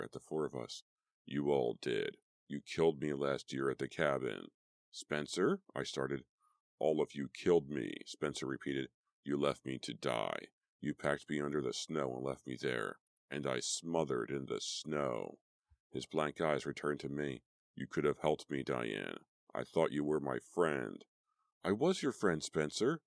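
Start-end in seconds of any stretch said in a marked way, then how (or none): 1.3-21.0 accusing ghost. Acted. 21.6-23.0 high, strained, near tears; choked out. A narrator's reading. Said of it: "I choked out".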